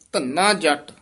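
small hold after Dhanna ਜੱਟ; slight pause after. Shown as a demonstration. Teacher asks for a slight hold after Dhanna ਜੱਟ. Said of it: "ਥੋੜ੍ਹਾ ਜਿਹਾ ਠਹਿਰਾ".

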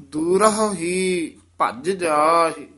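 ਭੱਜ said tight and clipped with the doubled ਜ; tight pronunciation. Shown as a demonstration. Teacher showing the student a tight ਭੱਜ. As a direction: press ਭੱਜ hard and short. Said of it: "ਭੱਜ ਪਦ ਕਸ ਕੇ ਹੀ ਉਚਾਰਨ ਕਰਨਾ ਹੈ".

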